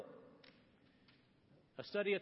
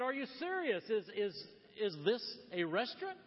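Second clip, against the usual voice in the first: mildly acted disbelief, pitched higher; incredulous questioning; 5 semitones higher than usual. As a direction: stammer it out as a baffled caller, lightly imitated. Retold caller doubts the restaurant name.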